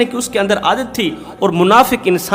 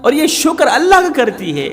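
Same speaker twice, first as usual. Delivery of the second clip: higher-pitched, resentful complaining; a hypocrite husband airing his grievance, pitched up and heated; indignant husband; 4 semitones higher than usual. Acted. Hypocrite husband complains about wife. (नाराज़ शौहर की ऊँची, शिकायती आवाज़)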